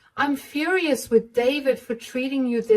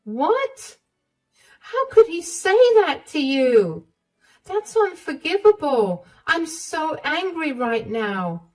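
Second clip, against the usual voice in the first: higher and louder, indignant; outraged mother; 9 semitones higher, 4 dB louder than usual. Acted. Mother furious at her son for hurting Emma, higher and louder. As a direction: let the anger burst out.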